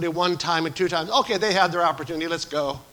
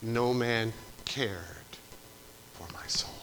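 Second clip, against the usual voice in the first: softer and lower lament; hushed; 5 semitones lower, 9 dB quieter than usual. Acted. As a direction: let it sink to a whisper. Quoting lonely Old Testament cry.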